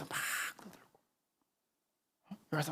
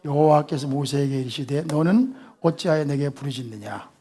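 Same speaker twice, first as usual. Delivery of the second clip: ordinary delivery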